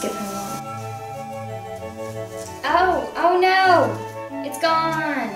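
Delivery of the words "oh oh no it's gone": slow, higher mock panic; hammed-up oh no; mock dismay. Mock dismay, lost wallet.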